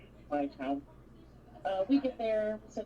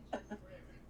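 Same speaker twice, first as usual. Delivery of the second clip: imitated unconfident chuckle; 8 dB quieter than usual. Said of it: "Not that confident laugh".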